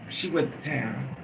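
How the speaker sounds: normal talking voice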